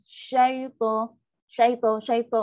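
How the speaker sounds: "syaita" chopped short; clipped wrong syaita. Shown as a demonstration. Teacher demos the wrong clipped "syaita". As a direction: cut off "syaita" abruptly. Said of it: "Ha, salah".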